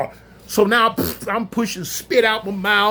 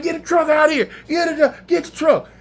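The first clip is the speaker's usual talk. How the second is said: higher, raised urgent call; police shouting orders; 8 semitones higher than usual. Retold or imitated. Police on walkie-talkies calling for the truck, urgent shout. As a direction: bark the order over the radio. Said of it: "They like".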